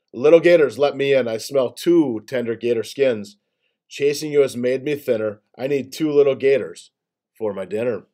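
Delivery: lightly raspy hungry boar; a hint of a rasping, greedy boar. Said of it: "Big Bottom Boar's raspy voice".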